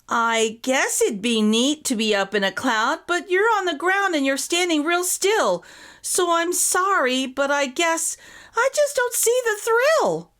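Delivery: put-on a polite boy who doesn't get the fuss; wondering aloud. Patrick wonders aloud to Donna, puzzled and politely apologetic. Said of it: "Patrick wondered aloud".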